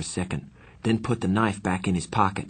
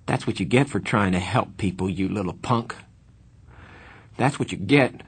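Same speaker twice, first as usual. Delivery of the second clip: rising into a bitter cry; bitter grieving anger. Acted. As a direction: lash out through grief. Grieving friend lashes out.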